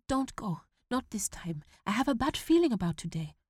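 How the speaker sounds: put-on worried young son; pleading boy. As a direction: beg him not to leave. Boy begging again.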